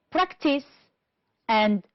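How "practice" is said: practice, high PRAC, then falling; stress on first syllable. Shown as a demonstration. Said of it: "stressed on the first syllable".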